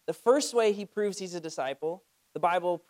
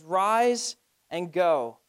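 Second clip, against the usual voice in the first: command; 4 dB louder, much slower than usual. Retold or imitated. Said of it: "is a command".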